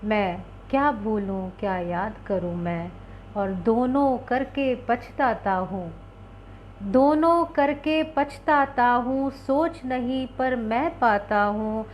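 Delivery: slow, measured Hindi poem reading; slow recitation of a wistful Hindi poem. Acted. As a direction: let each line of the poem linger, slowly.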